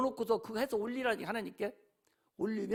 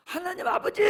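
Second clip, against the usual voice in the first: calling out; 4 semitones higher, 3 dB louder than usual. Shown as a demonstration. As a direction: call out, raised and rising at the end. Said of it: "목이 터지라고 불러봐". (목청 높여 부르짖듯)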